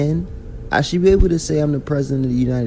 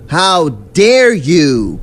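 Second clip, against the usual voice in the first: slow, drawn-out, louder mock indignation; mock outrage; 2 semitones higher, 4 dB louder, much slower than usual. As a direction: stretch it out like a fake-offended diva. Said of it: "I take offense to that and say".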